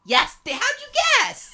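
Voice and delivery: loud, high burst of excitement; mock amazement. Host to co-host who finally guessed garden, mock amazement. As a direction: shout it in exaggerated delight.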